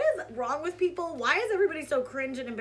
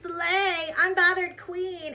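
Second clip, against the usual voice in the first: mock stan cheering, louder and higher; gushing fan comment; 4 semitones higher, 5 dB louder, slower than usual. Mimicking stans in the comments, mock gushing cheer. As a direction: hype her up like an adoring commenter. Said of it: "some people in the comments".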